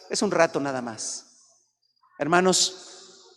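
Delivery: usual speaking voice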